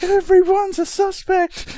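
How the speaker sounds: high, loud mock yell, drawn out; imitated yelling. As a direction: yell it out slowly like the over-the-top movie character. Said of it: "literally yelling".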